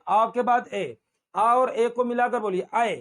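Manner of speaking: आ then ए, joined into आए; blended vowel demo. Shown as a demonstration. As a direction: show आ sliding into ए as one sound, आए. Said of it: "दो मात्रा वालों को बोलने का तरीका".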